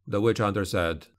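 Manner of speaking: plain reading voice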